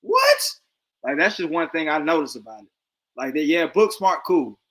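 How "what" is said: mocking a confused listener, voice climbing high; confused mock what. Mocking people who can't follow a Southern accent, confused squeaks. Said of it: "Now they act like".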